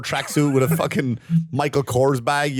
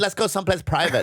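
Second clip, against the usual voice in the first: mock seductive quote; 3 semitones higher than usual. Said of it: "she kept saying".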